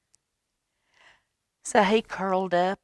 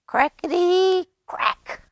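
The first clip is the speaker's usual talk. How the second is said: higher, slow, drawn-out reveal; dramatic crack; 9 dB louder, slower than usual. A narrator's reading. Reading to a child, the big moment the egg cracks. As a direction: build to the egg breaking open.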